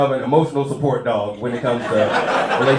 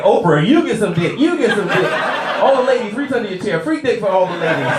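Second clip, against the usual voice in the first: Oprah giveaway host; 4 semitones higher than usual. Retold or imitated.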